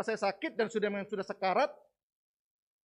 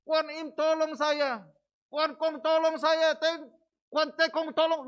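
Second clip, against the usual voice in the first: loud, slow, higher imitated cry of pain; retelling his father screaming to the gods; mock cry for help; 7 semitones higher, 7 dB louder, slower than usual. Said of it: "dia berteriak minta tolong kesakitan".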